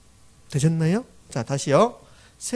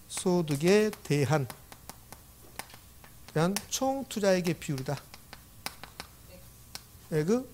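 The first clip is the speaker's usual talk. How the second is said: slow careful reading; 7 dB quieter than usual. Shown as a demonstration. Teacher showing students how to read the formula, slow and spaced. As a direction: read the formula slowly, with long pauses between chunks. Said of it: "이렇게 읽는 겁니다".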